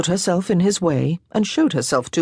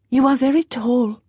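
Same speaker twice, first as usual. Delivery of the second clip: put-on lightly higher girlish voice for Jeanne; young French girl, a little higher; 8 semitones higher than usual. A narrator's reading.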